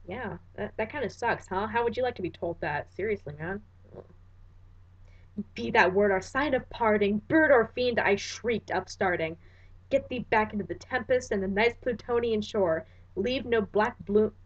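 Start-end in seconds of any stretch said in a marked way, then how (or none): 5.5-14.3 measured, dramatic recitation of verse; solemn verse reading; poem reading. Acted. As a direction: read it like a haunted poet. Reads The Raven aloud.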